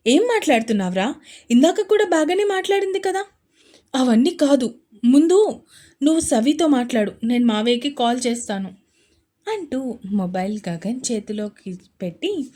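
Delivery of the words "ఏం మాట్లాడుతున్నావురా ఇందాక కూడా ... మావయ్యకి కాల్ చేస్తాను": alarmed. Acted. Alarmed exchange between friends.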